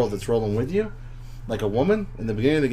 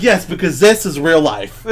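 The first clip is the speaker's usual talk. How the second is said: laughing retort; 4 semitones higher, 5 dB louder than usual. Retold or imitated. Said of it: "And I'm like".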